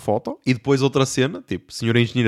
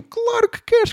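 high, sarcastic jab; mock knowing scoff; a teasing, sarcastic "of course"; slower than usual. Sarcastic retort in story.

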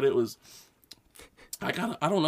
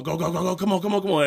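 rapid-fire urging, pitch climbing; hurried, repetitive goading; urgent egging on; 2 semitones higher, faster than usual. Retold or imitated. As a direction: egg the driver on through the light. Acted passenger urging car through yellow.

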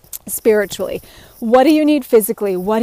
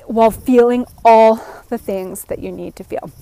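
running out of breath at the end; breathless from one long sentence. Real, not acted. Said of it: "I'm out of breath".

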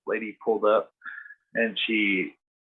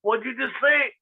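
imitating the lady; 13 semitones higher than usual. Old lady hearing the offer, in a high mock squeal. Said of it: "she was like".

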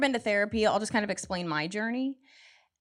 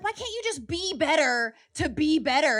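whiny women; 6 semitones higher than usual. Retold or imitated. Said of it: "women are going around being like".

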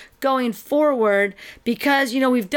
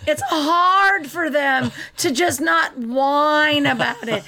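slow, drawn-out exasperation; exasperated mock whine; 2 semitones higher, slower than usual. Real, not acted. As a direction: drag it out in mocking complaint. Mocking whiny TV sisters, drawn out.

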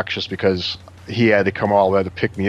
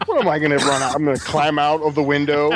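higher-pitched incredulous retort; retold sarcasm; 6 semitones higher, faster than usual. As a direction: act out scoffing at a silly order. Retold sarcastic reply to cop.

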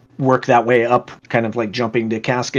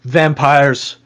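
loud, slow, higher-pitched command; guard's order; 4 semitones higher, 6 dB louder, slower than usual. Acted. Guard stopping the water carriers, loud and insistent. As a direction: overrule them firmly, voice raised. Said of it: "this one turns to the other".

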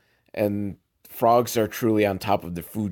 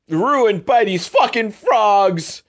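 drawn-out, disgusted complaint, higher and louder; exasperated; 9 semitones higher, 4 dB louder, slower than usual. Real, not acted. Viewer fed up with the frogs ruining the cake, slow and exasperated. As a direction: drag out the words in pure annoyance.

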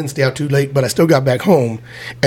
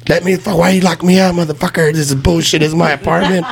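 lightly acted angry outburst, a little raised; mock drunken rant; 3 semitones higher than usual. Drunk man banging on roommate's door, mock angry rant. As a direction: replay a locked-out complaint with some heat.

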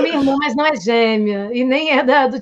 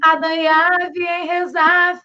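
backwards speech; 4 semitones higher, much slower than usual. Shown as a demonstration. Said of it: "Como é que é a música?".

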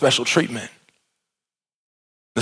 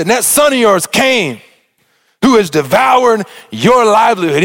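raised pitch, shouted accusation; indignant son; 4 semitones higher than usual. Acted. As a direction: accuse the father, rising to a shout. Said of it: "He said".

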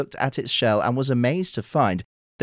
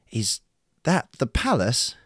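in awe; 3 semitones higher, slower than usual. Acted. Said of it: "Urashima asked in awe".

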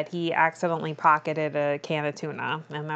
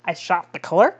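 "I shot the clerk?" as a puzzled question. Retold or imitated. Suspect echoing the accusation to police, "I shot the clerk?" as a question. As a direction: repeat "I shot the clerk?" back as a question, in disbelief. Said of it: "Question mark?".

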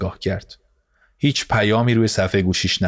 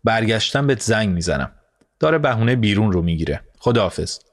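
hurried, rushed goodbye that speeds up in the middle; flustered. Acted. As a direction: rush to hang up, flustered by the screaming child. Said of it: "دست پاچه".

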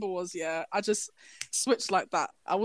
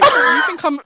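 higher, louder retort; confronting the rude guy, louder; loud challenge; 7 semitones higher, 8 dB louder than usual. Retold or imitated. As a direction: square up to him. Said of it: "I was like".

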